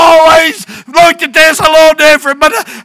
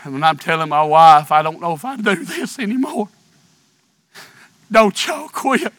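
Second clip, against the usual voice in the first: low, much softer pleading voice; hushed plea; 12 semitones lower, 12 dB quieter, faster than usual. Real, not acted. Preacher begging the congregation not to quit, low and soft. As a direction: drop to a near-whisper and plead with them.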